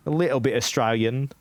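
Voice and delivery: put-on English accent. Real, not acted. Streamer introducing themself to raiders, accidental English accent. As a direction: slip lightly into an English accent.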